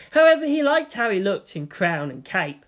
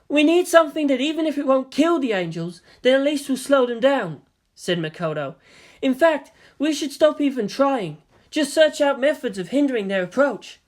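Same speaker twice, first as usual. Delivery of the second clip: higher voiced young officer; Makoto; 7 semitones higher, 3 dB louder than usual. A narrator's reading. Makoto to the command staff, higher voiced. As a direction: urge a new tactic.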